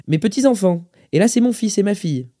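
put-on lifted old man's voice. A narrator's reading. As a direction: show off the family photos as an old man. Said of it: "expliqua le vieil homme".

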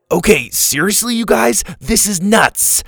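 high, loud exasperated outburst; boy fed up with the chaos. A narrator's reading.

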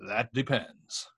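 slow, deliberate mock lawyer; measured, lightly put-on lawyer voice. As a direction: draw it out like a cagey lawyer. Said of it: "in my best lawyer voice".

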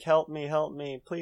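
mock a lost friend pleading; Harvey mimic pleading. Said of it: "mimicking Harvey's voice".

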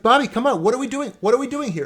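high, loud exasperated plea; exasperated teacher. Retold or imitated. Teacher scolding Bobby for not trying, exasperated.

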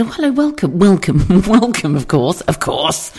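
high, effusive greeting; eager waitress welcome. Retold or imitated. Waitress greeting a huge American customer, effusive welcome. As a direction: gush a welcome, tipping into a laugh.

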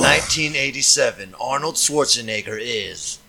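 trailer voice. Pretend. Parody movie trailer voice.

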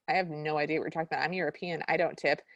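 low, rapid mock brush-off; dismissive brush-off. Candy refusing Andy a tip at her door, dismissive. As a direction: rattle off an imitated curt refusal.

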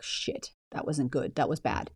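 quiet regret after yelling at someone; regretful mutter. Retold or imitated. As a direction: say it quietly to yourself, deflated. Quoting regretful self-talk.

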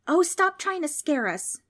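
high, loud show of bravery; trying to sound brave. A narrator's reading. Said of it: "trying to sound brave".

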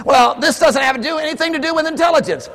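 mock whiny protest; whiny excuse. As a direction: play a churchgoer dodging the call. Voicing the objector.

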